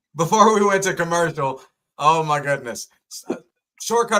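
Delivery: giggling while getting the words out. Restarting an intro after a joke from shortcut, laughing while talking. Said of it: "I'm still laughing at what you said".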